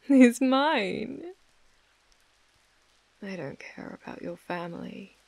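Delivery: possessive mistress, whispering and murmuring; whispered asmr role play. Acted. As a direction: coo and whisper to a captive. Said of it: "my A S M R roleplay".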